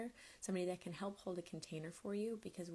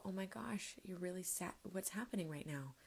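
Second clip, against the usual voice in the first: hushed, tender comfort; soothing a crying child; 4 dB quieter than usual. Acted. Parent hushing a crying kid, tender and soft. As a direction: whisper gently to calm a sad little one.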